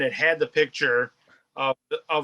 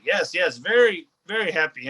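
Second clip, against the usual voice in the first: a hint of an excited foreigner's broken English; imitating foreign buyer; 3 semitones higher than usual. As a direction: buyer gushing thanks, lightly imitated. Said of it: "Oh, he's like".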